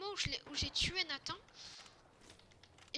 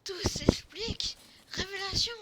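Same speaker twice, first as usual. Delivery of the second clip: mock-epic eureka shout; hammed-up revelation; 5 semitones higher, 10 dB louder than usual. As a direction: announce a grand revelation, drawing it out.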